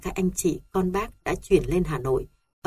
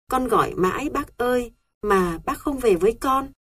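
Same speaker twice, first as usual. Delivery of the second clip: gọi cao giọng, nghẹn ngào nhớ thương; tiếng gọi tha thiết, cao vút, như sắp khóc; gọi bác trong nước mắt; 6 semitones higher than usual. A narrator's reading. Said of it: "Tôi thầm gọi". (cháu gọi người bác đã mất, giọng nghẹn ngào)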